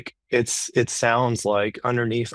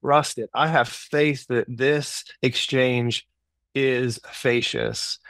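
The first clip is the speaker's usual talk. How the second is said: put-on naive child; 2 semitones higher, slower than usual. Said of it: "the child's point of view is".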